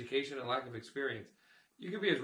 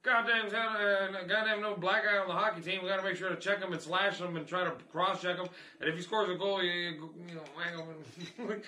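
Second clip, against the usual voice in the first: imitating a racist hockey fan; 3 semitones higher than usual. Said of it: "they'd be like".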